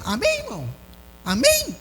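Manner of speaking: hammed-up Universal Church pastor tag, rising on the second amen; lightly imitating a preacher working the crowd; mock preacher call. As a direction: parody of a pastor asking the congregation for an amen. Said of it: "todos eles têm a mesma entonação".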